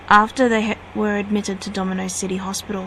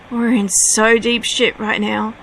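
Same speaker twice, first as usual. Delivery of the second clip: raised, urgent cry; cried out; 4 dB louder than usual. Acted. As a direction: blurt it out in alarm. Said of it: "Heba cried".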